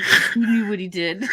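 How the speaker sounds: laughing quote. Retold or imitated. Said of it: "I was like".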